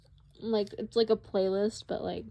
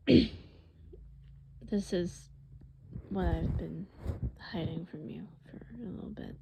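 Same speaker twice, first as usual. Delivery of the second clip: hushed confiding whisper; 2 semitones lower, 3 dB quieter than usual. Acted. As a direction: confide it softly, almost breath. Eddie confesses in whisper.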